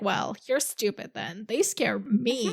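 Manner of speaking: slow, dry comeback with "They" stressed; Gendry deadpans back at Arya; deadpan retort. Retold or imitated. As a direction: drop it flat, then slow down on They scare me. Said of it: "that was so much better".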